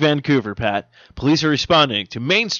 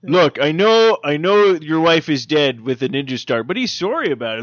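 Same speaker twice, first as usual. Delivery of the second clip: over-apologize like a Canadian; mock sorry Canadian; 2 semitones higher than usual.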